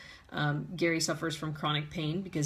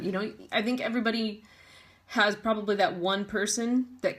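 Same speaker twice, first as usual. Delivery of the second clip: fighting tears; 3 semitones higher than usual. Real, not acted. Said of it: "trying not to cry and talking".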